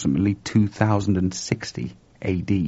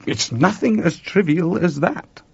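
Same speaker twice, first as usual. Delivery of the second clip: higher, odd, aloof lama voice; quoting Sam; 9 semitones higher than usual. Retold or imitated. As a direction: mimic the old lama dismissively. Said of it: "looked at me in a very queer way".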